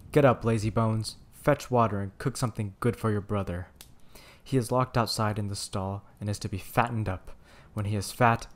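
loud, harsh order from the witch; witch shouting. Acted. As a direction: bark the girl out of bed. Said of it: "shook Gretel and cried".

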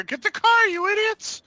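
high panicked yell at teammates. Real, not acted. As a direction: shout it high and frantic. Urgent callout, enemies landed.

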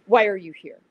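loud, distrustful retold question; suspicious demand, punched on why; angry, suspicious. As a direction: imitate an angry woman challenging a stranger. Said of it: "it's angry and also very".

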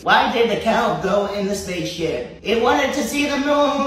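robotic voice assistant; even, mechanical phone assistant; Siri voice. Pretend. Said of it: "Read the joke in a Siri voice".

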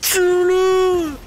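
excited shout. Real, not acted. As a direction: yell it at the screen. Urging on at the boss.

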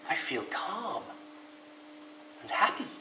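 soft, high wondering voice; calm and happy. A narrator's reading. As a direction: say it softly, discovering the feeling. Rabbit calm after the view.

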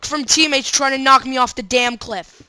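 loud, high, exasperated outburst; loud rant. Real, not acted. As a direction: shout about nearly dying. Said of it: "sorry for being so loud".

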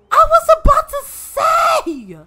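high, loud and slow outraged cry; shocked shout. Real, not acted. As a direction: shout it in disbelief. Shocked at Sims playing outside.

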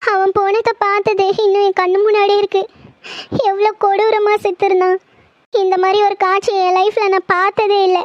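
pleading through tears over the death; upset doctor near tears, unable to accept a death; tearful. Acted. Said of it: "please அழாத நிலா".

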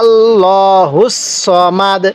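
আল্লাহুস সমাদ drawn out slowly; slow recitation. Shown as a demonstration. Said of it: "আমার সাথে পড়ুন".

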